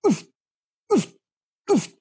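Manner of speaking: short "oof" huffs, pitched slightly up. Shown as a demonstration. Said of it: "slight difference in the pitch".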